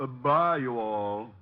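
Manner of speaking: broad country drawl; hillbilly put-on. Detective in disguise calling the psychic, country accent. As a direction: play the hog farmer yokel.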